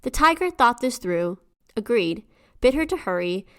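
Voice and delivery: measured, lilting storyteller's read; folktale narration. A narrator's reading. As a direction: tell it like a children's tale, phrase by phrase. Reads the folktale aloud.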